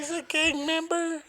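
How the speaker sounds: high mock gasp of disbelief; mock shock. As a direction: play it as fake outrage.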